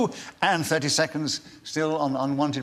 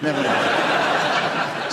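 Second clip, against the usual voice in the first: breathy chuckle, very slow; whispered laugh; 2 semitones lower, much slower than usual. Acted. Host echoes panellist, chuckling.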